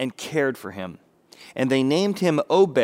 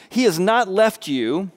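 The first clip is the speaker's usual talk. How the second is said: maidservants blessing; 8 semitones higher, 6 dB louder than usual. Retold or imitated. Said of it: "these are the maidservants talking to her".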